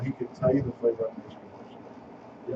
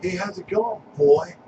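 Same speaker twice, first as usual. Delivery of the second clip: lightly voiced creepy coach, pitched up; mimicking the coach; 5 semitones higher, 7 dB louder, slower than usual. Friend mimicking the coach's greeting, lightly creepy. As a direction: repeat the coach's line with a sly grin. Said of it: "Did you hear how he said it?".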